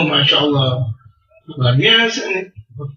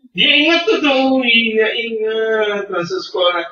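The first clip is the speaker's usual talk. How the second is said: playfully acting out a happy flashback; mock delighted remembering; 5 semitones higher, slower than usual. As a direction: voice jumps high on "Dia ingat tuh", then slows. Acts out sudden fond recollection. (pura-pura teringat dengan girang, nada tinggi lalu melambat)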